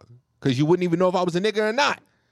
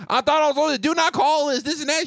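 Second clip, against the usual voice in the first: high, mocking whine of an angry caller; whiny caller mock; 8 semitones higher than usual. Mocking callers who yell about the do not call list, high whiny voice. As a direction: mimic a petulant caller, pitched up. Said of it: "Motherfuckers be yelling at me".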